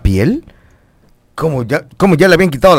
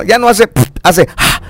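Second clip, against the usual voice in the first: imitated noises; 5 semitones higher than usual. Shown as a demonstration. Host mocking Julius's worn-out body, imitated noises. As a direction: puff of air, then a gasp.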